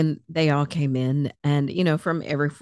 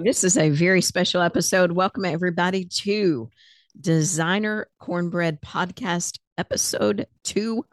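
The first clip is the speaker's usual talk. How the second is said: mock dramatic welcome; 3 semitones higher than usual. Shown as a demonstration. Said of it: "that was supposed to be more dramatic".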